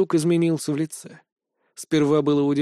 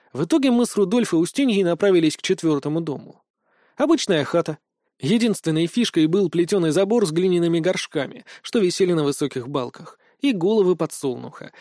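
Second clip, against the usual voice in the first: ordinary delivery, nothing marked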